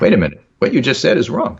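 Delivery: a hint of a puzzled pedant; mock literal-minded objector. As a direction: imitate someone missing the joke. Voices literal-minded objector to joke.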